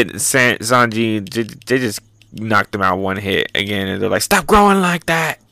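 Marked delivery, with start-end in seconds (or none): 4.2-5.4 raised-pitch mock protest; mock exasperated cry. Characters fed up with the designs, mock exasperated cry. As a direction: retell an exasperated outcry.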